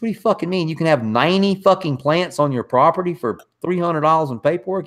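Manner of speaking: can't-believe-it questioning; retold disbelief. Retold astonished reply to the grower.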